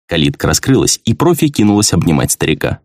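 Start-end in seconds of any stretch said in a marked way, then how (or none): none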